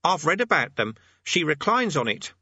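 put-on high, self-satisfied boy's voice; smug. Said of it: "said Eric smugly".

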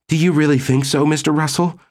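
high, uncertain woman's voice; hesitant, high-voiced appeal; faltering. A narrator's reading. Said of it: "said in a faltering voice".

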